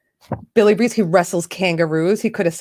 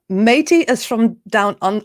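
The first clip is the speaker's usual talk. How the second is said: slow, faltering Australian accent attempt; bad Australian accent; 2 semitones higher, 3 dB louder, slower than usual. Host introducing Mark from Down Under, bad Australian accent. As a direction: try an Australian accent and fail. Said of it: "I can't do an Australian accent".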